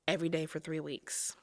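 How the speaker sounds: hushed whisper to mom; soft whispered plan to mom. Retold or imitated. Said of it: "I remember telling her".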